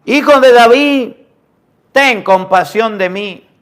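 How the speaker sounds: high, loud cry that slows into a plea; a desperate mother crying after Jesus, loud; pleading cry. Acted. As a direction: beg for mercy out loud. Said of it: "le gritaba".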